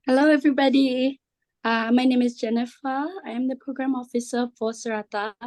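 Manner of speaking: hoarse, worn-out voice; losing voice. Real, not acted. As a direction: speak through a voice that's going. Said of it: "I'm losing my voice".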